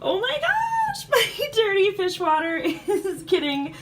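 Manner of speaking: high, loud, slow delighted squealing; overjoyed, gushing with laughter; so excited. Real, not acted. Fishkeeper thrilled her tank drains itself, excited squealing. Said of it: "I am so excited".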